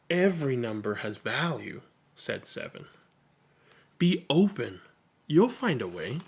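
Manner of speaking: a hint of a wise friend; gentle reassurance. Seven reassures Zero.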